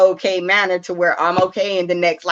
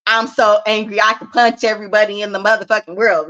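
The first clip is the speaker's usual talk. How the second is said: a touch of mock rage, louder; mock angry outburst; 2 semitones higher, 4 dB louder than usual. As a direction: play the furious kid lightly. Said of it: "when you feel like".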